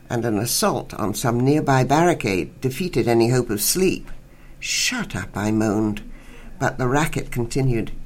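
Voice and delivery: measured literary reading voice; story reading. Acted. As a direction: read the short story aloud for radio listeners. Reads short story aloud on radio.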